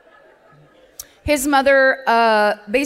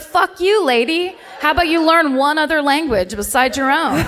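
higher-pitched hammed-up annoyed retort; mock angry heckler; 3 semitones higher than usual. Host imagines annoyed Swedes scolding her, in mock outrage. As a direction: play an irritated listener, half joking. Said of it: "some people that are like".

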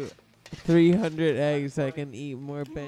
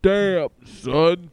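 loud exclamation; 2 semitones higher, 9 dB louder than usual. Acted.

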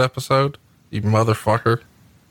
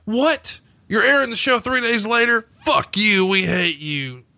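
angry fan; 10 semitones higher than usual. Pretend. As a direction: yell like a furious crowd member. Voicing angry fans.

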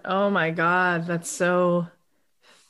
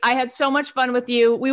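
high, excited gush; real delight, pitched way up; gushing affection; 5 semitones higher than usual. Real, not acted. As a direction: squeal it at a guest you adore. Host gushes to departing guest.

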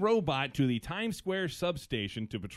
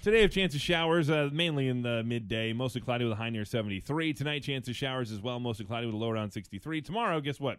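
radio weather read; 3 semitones lower than usual. Acted. Reads weather and news sign-off.

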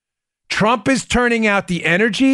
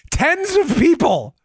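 laughing; 6 semitones higher than usual. Real, not acted. Laughing while reading headline.

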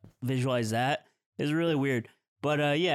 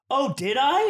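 high, louder, mock-innocent kid; scared kid; 10 semitones higher, 6 dB louder than usual. Terrified kid dodging blame from the driver. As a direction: feign innocence, squeaky. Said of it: "he's really scared".

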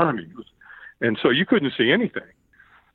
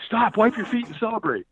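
pitched-up mock command; retold catcher's order; 9 semitones higher than usual. Catchers at lane's end, higher-pitched called instruction. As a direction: call it out like a helper.

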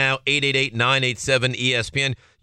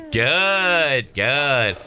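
put-on old deli man; 4 semitones higher than usual. Host imitating a favorite sound clip, old deli man voice. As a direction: stretch the word out big and high. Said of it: "Sounds like an old Jewish man in a deli".

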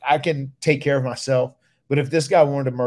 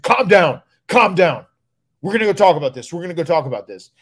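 firm calming; 5 semitones higher, 6 dB louder than usual. Retold or imitated. Finlay calming angry Brock.

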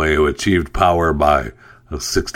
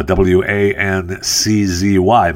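dictating; slower than usual. Shown as a demonstration. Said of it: "spelling out the handle".

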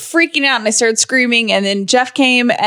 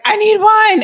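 higher, pleading cry for wine; mock desperate plea, higher; 11 semitones higher, 3 dB louder than usual. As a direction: beg for wine half-jokingly. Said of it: "I was like".

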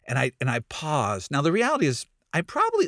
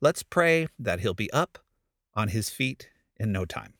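cheerful prayer offer. Retold or imitated. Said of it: "I say".

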